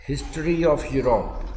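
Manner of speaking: slow, even dictation pace. Shown as a demonstration. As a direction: spell it out slowly for students to write. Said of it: "Europe का इतिहास". (धीरे धीरे लिखवाना)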